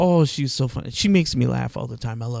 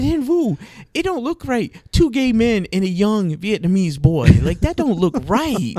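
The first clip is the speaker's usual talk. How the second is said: much higher, incredulous protest; exasperated protest; 6 semitones higher, 4 dB louder than usual. Retold or imitated. Refusing friend's nephew moving in, high scandalized protest. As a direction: push back, scandalized. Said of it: "I said".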